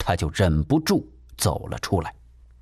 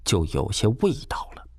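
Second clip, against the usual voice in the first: ordinary delivery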